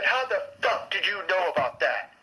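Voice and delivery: mild retold outburst; retold yell. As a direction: imitate her angry demand without shouting. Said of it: "yelled at me".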